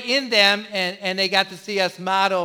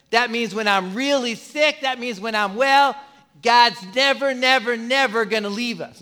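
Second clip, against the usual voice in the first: preaching at full force; 3 dB louder than usual. Real, not acted. Preaching build to climax.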